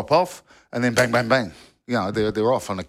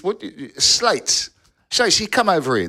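higher-pitched retold coach's call; mock touchline call, pitched up; calling a player over; 8 semitones higher than usual. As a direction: imitate a coach summoning his player. Coach calls him over in retold story.

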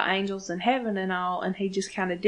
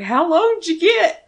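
mock crying; 8 semitones higher, 7 dB louder than usual. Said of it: "fucking Sam automatically starts crying".

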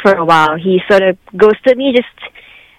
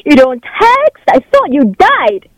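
higher, exasperated angry scolding; 4 semitones higher than usual. Real, not acted. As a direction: accuse him, voice up. Scolding ex on the radio.

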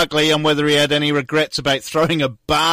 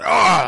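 wound-up growl; 4 semitones higher, 4 dB louder than usual. Shown as a demonstration. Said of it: "'Cause I'm just like".

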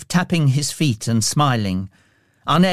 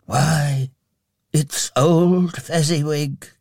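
put-on slow, astonished old Scrooge; gasped; 3 semitones higher, slower than usual. A narrator's reading. Scrooge recognises his old employer, gasping. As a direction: gasp in delighted recognition. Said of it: "gasped Scrooge".

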